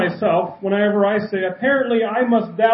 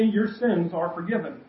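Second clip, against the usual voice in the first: quiet Jesus reply; 3 semitones lower, 6 dB quieter than usual. Retold or imitated. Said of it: "Jesus told the paralytic".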